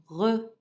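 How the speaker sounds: "Re" as an isolated syllable, French R and full schwa; pronunciation demo. Shown as a demonstration. Teacher shows pupils R with E, "Re" said separate and distinct. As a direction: model "Re" distinctly for learners. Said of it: "je prononce?".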